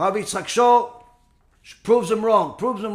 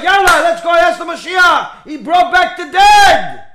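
high, loud, eager crowd shout; excited shout; 7 semitones higher, 9 dB louder than usual. Retold or imitated. Crowd urging each other to follow him, shouting. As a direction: whip up the crowd. Crowd rushes to the false messiah.

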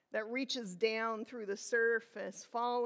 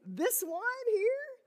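high then dropping, slow and fond; a fond this one's mine; proud claiming voice; 6 semitones higher, slower than usual. Retold or imitated. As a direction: say it like a proud parent. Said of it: "a way of saying".

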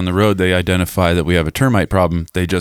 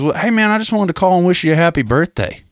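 high, eager put-on caller voice; mock a salesman's forced friendliness, pitched way up; over-friendly salesman; 10 semitones higher than usual. Salesman cold-calling with birthday wishes, put-on high voice.

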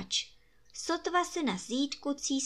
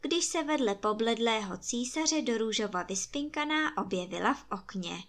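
ordinary delivery, nothing marked

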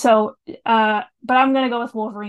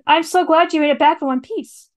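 higher, louder glad outburst; exclaiming; 6 semitones higher, 6 dB louder than usual. A narrator's reading. Binky welcoming Finnegan back safe, exclaiming. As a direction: exclaim it with lively relief. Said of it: "Binky the Hardy exclaimed".

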